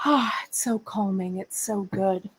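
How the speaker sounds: sighing, calm whisper; breathy whisper. Real, not acted. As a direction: sigh it out softly. Sighing whisper about cat.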